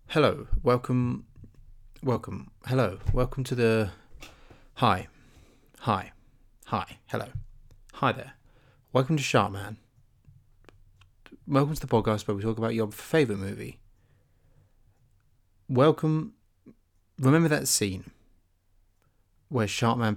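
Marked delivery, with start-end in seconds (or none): 0.1-13.8 mock podcast intro. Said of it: "record a mock intro for the podcast". 15.7-16.3 welcome, pitched high and bright with energy; excited host welcome. Pretend. Trying out a mock intro, an excited host welcome. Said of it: "record a mock intro for the podcast".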